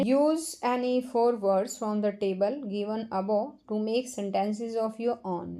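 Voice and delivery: very slow, careful reading-aloud voice; slow textbook reading. Acted. Teacher reading a definition to children, very slow and careful. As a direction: spell out the definition slowly, word by word, for the class. Teacher reads instruction slowly.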